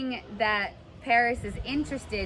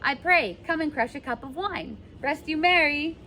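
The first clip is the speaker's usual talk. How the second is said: boastful servant; 3 semitones higher than usual. Acted. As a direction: brag about the master's house. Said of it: "the serving man says".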